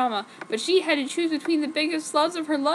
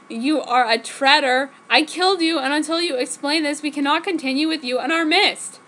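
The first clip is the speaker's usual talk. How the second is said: angry accusation; 3 semitones higher, 4 dB louder than usual. Acted. Ward accusing Em.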